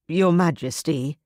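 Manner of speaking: Your Majesty said with a rising, doubtful lilt like a question; questioning sneer. Acted. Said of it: "made the phrase sound like a question".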